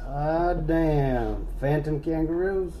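southern drawl question; light backwoods drawl; southern accent. Pretend. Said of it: "Why are you doing a voice now".

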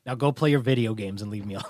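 quick, laughing through the words; dad laughing as he sends his son off to play; laughing mock dismissal. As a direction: brush him off while cracking up. Imagined dad shooing son away.

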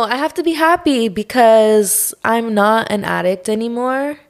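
ordinary talk

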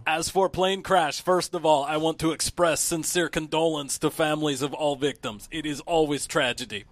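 put-on mild Russian accent, slowed at the start; Putin accent. The speaker reading Putin's quote in a Russian accent. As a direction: read Putin's statement in a light Russian accent. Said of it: "the quotes is where you have to do the accent".

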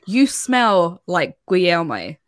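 weird, creepy line. Retold or imitated. Retelling Tom's remark to Francis, slow and weird. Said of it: "again in a really weird way".

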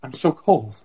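a hint of a South Park girl. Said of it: "That's how I talk like a girl".

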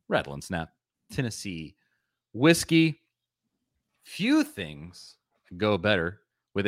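measured sponsor read with pauses between phrases. Acted. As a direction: present the product name piece by piece, deliberately. Reads a sponsor ad.

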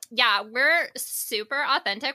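put-on drawn-out Valley Girl tone. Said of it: "they don't like when we talk like Valley Girls".

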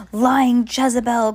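loud slow furious shout; furious cry. Acted. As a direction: hurl the accusation, slow and loud. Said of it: "cried the judge".

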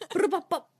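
high, playful rolled brr and pops; rapper-style gun ad-lib in fun; mock gunfire noises. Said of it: "super fake Cockney ones".

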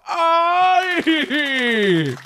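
high shrill "ay" crow, loud; a high camp rooster cry; effeminate rooster cry. Retold or imitated. Beach rooster retold, high loud camp "ay". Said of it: "llegaba uno que hacía".

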